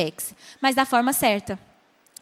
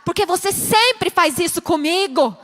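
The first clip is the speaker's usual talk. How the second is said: accusing; 4 semitones higher, 4 dB louder, slower than usual. Shown as a demonstration. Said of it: "em vez de você falar".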